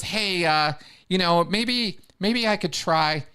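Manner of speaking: sheepish, hedging request; timid thief. Retold or imitated. Thief timidly asking the guide to visit hell.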